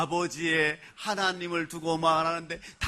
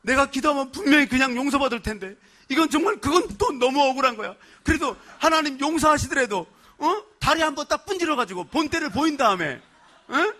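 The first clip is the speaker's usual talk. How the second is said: raised, aggrieved voice, louder and higher; indignant inner voice; 7 semitones higher, 4 dB louder than usual. Retold or imitated. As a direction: grumble aloud at God as if cheated. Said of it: "내 마음속에 이런 마음이 있더라고".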